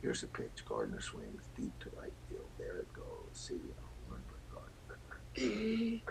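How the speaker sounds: radio play-by-play home run call. Shown as a demonstration. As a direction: call the homer like a broadcaster. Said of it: "Do a Brett Gardner home run call".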